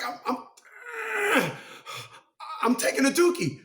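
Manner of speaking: high, lightly put-on dog voice; voicing the dog. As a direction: play the dog caught in the act. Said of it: "she was looking at me like".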